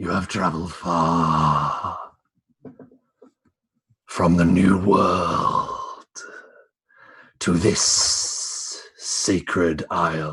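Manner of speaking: harsh rasping voice, very slow, far stretched. Voicing a man with a predator's glint who addresses the player: horrid rasping voice. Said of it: "a horrid, rasping voice comes out of his mouth".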